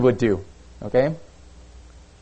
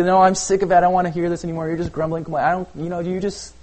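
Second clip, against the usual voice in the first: fed-up God; 4 semitones higher, faster than usual. Retold or imitated. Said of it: "you can be".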